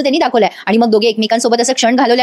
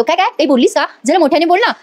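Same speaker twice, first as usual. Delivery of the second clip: lightly acted, higher-pitched questioning; teasing prompt; 5 semitones higher than usual. Husband coaxes shy wife to speak up, playfully teasing. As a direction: pretend you didn't catch it, pitch lifted.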